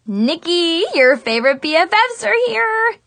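high, bright excited squeal; happy squeal. A narrator's reading. Zoe bursting in on her sad friend, squealing happily. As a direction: squeal it out like a thrilled best friend. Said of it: "Zoe squealed happily".

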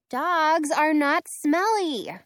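slow, indignant protest. Acted. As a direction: drag it out, offended. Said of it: "I protest".

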